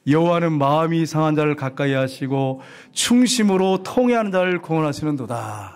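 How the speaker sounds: measured, sustained recitation; scripture reading. Acted. Preacher reads a psalm with the congregation, scripture reading. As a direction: read the verse out evenly.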